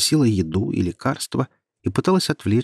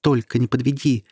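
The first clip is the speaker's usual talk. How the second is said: repeating urgently. Acted. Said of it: "твердила она, не переставая".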